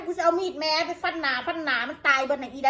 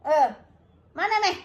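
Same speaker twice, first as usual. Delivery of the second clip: taunting dare. Real, not acted. Daring commenters to come.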